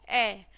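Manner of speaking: ए as a short isolated vowel; letter sound demo. Shown as a demonstration. Teacher showing children the sound of A, letter sound demo. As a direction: sound out ए on its own. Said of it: "क्या बोलते हैं हम इसको".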